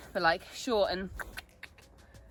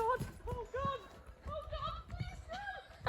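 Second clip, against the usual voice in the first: high, pleading panic; frightened pleading; 8 dB quieter, slower than usual. Real, not acted. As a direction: beg under your breath, high and scared. Horse spooks, rider dreads the jump.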